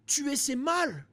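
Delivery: slow, solemn action-hero moral, mock serious; slow hammed-up action star lesson; Jean-Claude Van Damme. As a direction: deliver it like a grave martial-arts movie hero, very slow. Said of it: "ça paraît vraiment Jean-Claude Van Damme, Van Dammesque".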